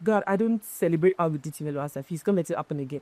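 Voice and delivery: demonstrating the diplomatic way to say it; tactful delivery. Shown as a demonstration. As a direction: make the same point gently, voice dropping. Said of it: "it's just about how I say it".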